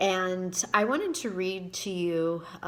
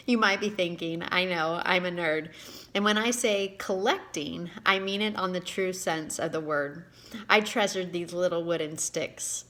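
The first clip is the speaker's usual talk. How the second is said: reading her own book aloud, a touch livelier than her chat; story reading; 4 dB louder than usual. Acted. Author reading her story to viewers, expressive narration. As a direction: read the story to your viewers with gentle storytelling lift.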